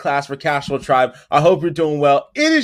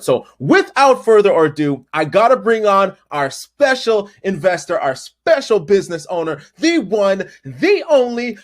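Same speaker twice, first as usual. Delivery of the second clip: hype announcer introduction; 3 semitones higher than usual. Real, not acted. Host bringing on the special guest, hype announcer build-up. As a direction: announce the guest like a ring announcer, rising in pitch.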